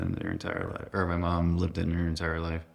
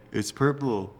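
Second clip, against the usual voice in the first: higher-pitched imitation of brother; lightly voiced kid brother; brother's old voice; 6 semitones higher than usual. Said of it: "old voice, his old voice".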